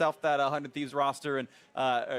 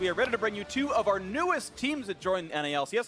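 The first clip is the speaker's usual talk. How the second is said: raised, energetic match announcer voice; announcer introduction; 6 semitones higher, 3 dB louder, slower than usual. Real, not acted. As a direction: introduce the teams with broadcast hype.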